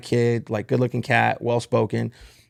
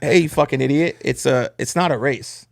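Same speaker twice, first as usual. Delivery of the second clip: angry retort. Retold or imitated. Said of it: "I'm getting fired up".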